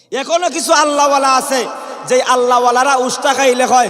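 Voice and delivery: high, loud sermon cry; rousing preaching. Real, not acted. Preacher telling listeners of godly men, high rousing shout. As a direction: belt it out to the congregation.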